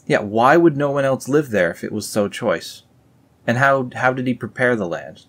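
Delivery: ordinary talk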